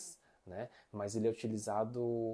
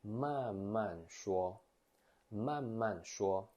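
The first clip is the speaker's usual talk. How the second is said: 慢慢说 said very slowly, syllable by syllable; teacher models each syllable slowly; slow model phrase; 3 semitones lower, much slower than usual. Shown as a demonstration. Teacher drills the class on slow 慢慢说. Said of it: "Você pode estar utilizando isso aqui".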